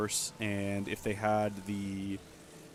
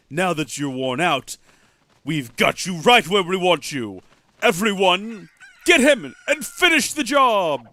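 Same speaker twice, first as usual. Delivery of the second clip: rising to a loud high command; gloating villain; 4 semitones higher, 9 dB louder than usual. Acted. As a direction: sneer then order the attack. Cuckoo villain reveals ambush.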